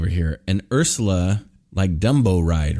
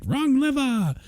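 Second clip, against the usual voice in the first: Yzma voice. Retold or imitated. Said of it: "she's like".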